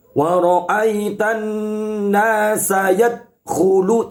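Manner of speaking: "yadkhulu" with the "d" swallowed, not bounced; wrong, no bounce. Shown as a demonstration. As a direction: let the "d" of "yadkhulu" die flat. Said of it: "tidak boleh". ("yadkhulu" dibaca tanpa qalqalah)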